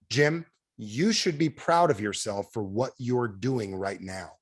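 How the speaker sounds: slow, deliberate praise, softening at the end; measured words of encouragement; sincere praise. Acted. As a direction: tell them earnestly, taking your time. Sincere praise modelled for audience.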